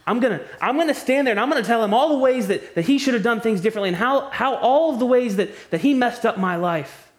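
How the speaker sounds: hammed-up indignant rant at God; mock defiant complainer. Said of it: "say something like this".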